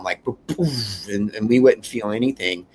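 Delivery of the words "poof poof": slow, airy explosion noise; imitated bomb blast. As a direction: puff out a soft mock blast. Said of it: "I thought it'd be like an atom bomb".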